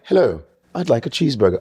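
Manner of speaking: lightly imitated British accent. Big guy ordering food, in a put-on British accent. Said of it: "British accent in, um, New York".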